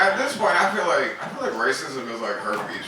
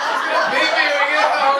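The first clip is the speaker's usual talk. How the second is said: high, loud little lap dog; tiny dog voice; 7 dB louder than usual. Retold or imitated. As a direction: pitch way up as the squeezed lap dog. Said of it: "And the dog was like".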